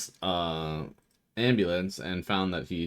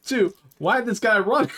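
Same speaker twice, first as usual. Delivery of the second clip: laughing squeal; 13 semitones higher, 6 dB louder than usual. Real, not acted.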